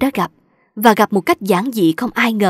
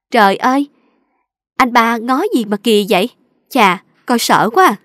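put-on loud, startled southern girl cry; 3 dB louder than usual. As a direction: cry out, shocked and a bit scared. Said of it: "thấy cô kêu lên rằng". (kêu lên hoảng hốt, giọng miền Nam)

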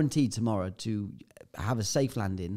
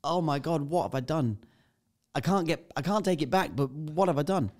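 panicked thoughts; 5 semitones higher than usual. Retold or imitated. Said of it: "my emotions that I've got at this point is like".

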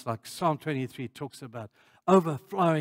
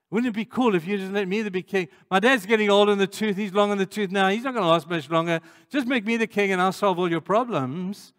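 higher, louder, rising salesman push for the crown; eager persuading pitch; 6 semitones higher, 6 dB louder than usual. Retold or imitated. Absalom urging the people to crown him, eager loud pitch. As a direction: sell the people on making him king. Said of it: "He said to the people".

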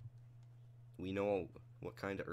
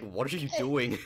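loud; 4 semitones higher, 9 dB louder than usual. Retold or imitated. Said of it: "I was like".

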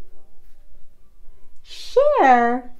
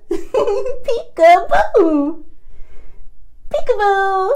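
playful peekaboo; 6 semitones higher than usual. Real, not acted. Peekaboo game with baby.

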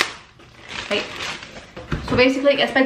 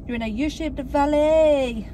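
slow, pointed teacherly tone; deadpan mock lecture; 3 semitones higher, slower than usual. Real, not acted. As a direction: lay out the geography with mock seriousness. Teasing about flat chest.

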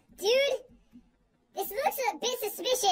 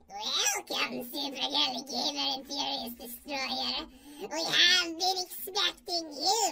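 slow, low creepy villain; a lightly put-on sinister villain; creep voice; 4 semitones lower, much slower than usual. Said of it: "has to be a creep voice".

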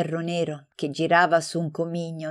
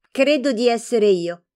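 put-on piqued girl, higher and louder; irritated; 7 semitones higher, 5 dB louder than usual. A narrator's reading. Girl answering her friend, piqued and higher. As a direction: snap it back, offended. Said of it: "rispose la fanciulla stizzita".

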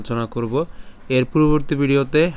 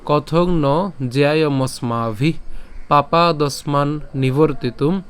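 slow, measured chant of the whole shloka; slow recitation; slower than usual. Shown as a demonstration. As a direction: recite the whole verse slowly. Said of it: "সম্পূর্ণটা যদি আমরা আরেকবার বলি". (ধীর লয়ে সম্পূর্ণ শ্লোক পাঠ)

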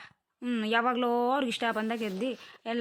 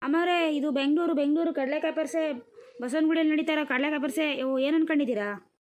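slightly raised hawker's voice, defending the price; insistent street vendor; 5 semitones higher, 4 dB louder than usual. Acted. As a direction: set the customer straight like a proud seller. Plays fair vendor defending the price. (ಪಟ್ಟು ಹಿಡಿದ ವ್ಯಾಪಾರಿಯ ದನಿ)

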